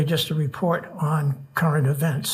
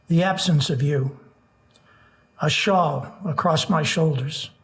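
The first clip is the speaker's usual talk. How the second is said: nervous open mic poet. Acted. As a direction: read each line with long pauses. Reads a tanka triptych aloud.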